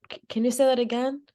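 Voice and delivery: mildly confused, retold request to repeat; puzzled request. Worker not understanding customer's four numbers, mildly puzzled.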